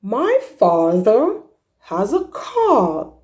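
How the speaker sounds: "car" with an open ah, said slowly; slow model sentence. Shown as a demonstration. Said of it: "So in a sentence you say".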